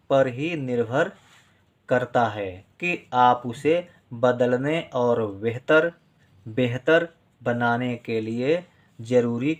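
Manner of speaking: slow, deliberate reading aloud for students to write; measured dictation voice. Acted. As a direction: read each phrase slowly so they can write along.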